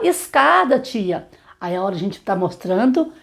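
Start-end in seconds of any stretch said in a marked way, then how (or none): 0.0-1.3 imitando a criança. Retold or imitated. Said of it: "Aí uns vão falar".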